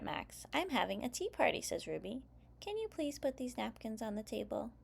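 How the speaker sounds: put-on lively read-aloud for young kids; story narration. A narrator's reading. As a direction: read it like story time for preschoolers. Reads picture book aloud.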